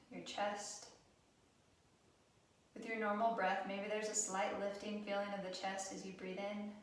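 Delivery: calm, even guided-meditation delivery with long pauses; guided relaxation. Acted. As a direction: gently guide them through breath awareness, unhurried. Leads a guided breathing relaxation.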